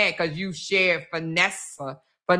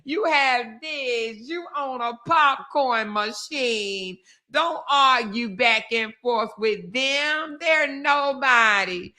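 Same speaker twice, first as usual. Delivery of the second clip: slow, higher mocking imitation of Ashley; imitating Ashley's live, slow and higher; mocking Ashley's words; 4 semitones higher, slower than usual. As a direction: drag it out in a sing-song mock of her live. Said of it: "she went right back live to say the same thing".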